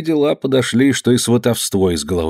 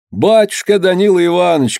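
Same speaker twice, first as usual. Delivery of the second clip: high pleading call; crying out; 8 semitones higher than usual. A narrator's reading. Serfs on their knees to master, high pleading cry. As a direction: wail up to the master. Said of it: "кричали холопы".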